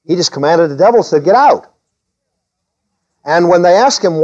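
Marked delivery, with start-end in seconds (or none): 1.2-1.7 command. Acted. Acting out command to devil.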